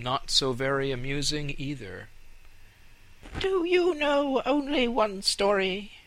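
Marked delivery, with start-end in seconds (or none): 3.4-5.9 high scornful rat voice. Acted. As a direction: ask it like a bored rat. Rats ask.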